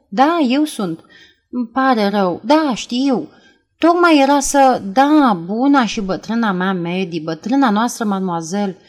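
a thin, breathy phone voice, breathing hard; thin breathless voice. Acted. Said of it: "vorbi cu o voce subțire, răsuflând greu".

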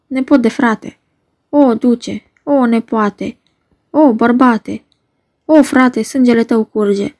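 mildly impassioned cries of grief; acted lament. Countess Capulet mourning her slain nephew Tibalt, acted lament. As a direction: mourn aloud, lifting the repeated cries.

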